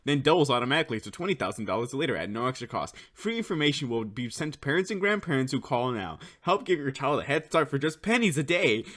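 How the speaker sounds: fast, bright ad-read patter; chipper 1950s ad. Retold or imitated. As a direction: rattle it off like a TV pitchman. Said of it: "I used to be able to recite this one".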